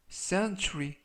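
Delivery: "century" said as SEN-chu-ri, stress on the first syllable; model pronunciation. Shown as a demonstration. Teacher modelling the word for Korean learners, careful pronunciation. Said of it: "century라고 발음하시면 되겠고요".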